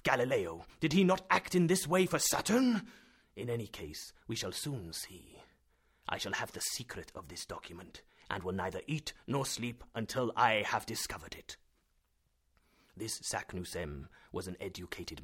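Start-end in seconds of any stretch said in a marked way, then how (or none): 0.0-11.5 a hint of a lecturing professor; lightly voiced professor. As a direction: reason it out like a stern scholar. Professor vows to solve cipher.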